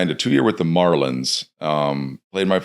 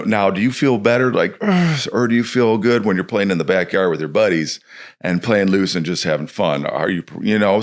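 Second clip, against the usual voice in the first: a hint of a patient coach, higher; walking the kid through; 3 semitones higher than usual. Coach talking a kid through how he feels, patient. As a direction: guide the kid gently step by step. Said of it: "kinda gotta walk 'em through".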